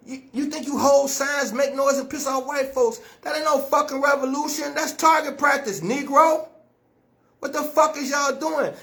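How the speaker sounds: real harsh scolding, insistent. Real, not acted. Speaker scolding followers over their idea of revolution, harsh. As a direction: berate them bluntly, pressing every point. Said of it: "I'm saying it so harshly".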